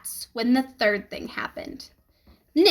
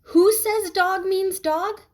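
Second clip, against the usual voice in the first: slow, higher teacher voice, posing a riddle; teacher's voice; 7 semitones higher, slower than usual. A narrator's reading. Teacher Mrs. Granger questions Nick, slow and high. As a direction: ask it slowly like a teacher testing him. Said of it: "She had said".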